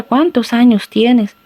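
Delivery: "¿Cuántos años tienes?" slow, as a clear question; asking a question. Shown as a demonstration. Someone asks a child their age, slow question. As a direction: ask it slowly and clearly. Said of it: "alguien te pregunta".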